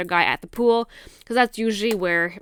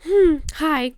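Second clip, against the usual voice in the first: pointed fake hello; 7 semitones higher than usual. Retold pointed greeting on approach.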